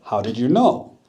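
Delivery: caught-out whisper; whispered surprise. Acted. Crocodile caught by the monkey, whispering in surprise.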